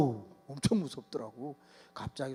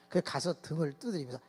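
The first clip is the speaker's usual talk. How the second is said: ordinary delivery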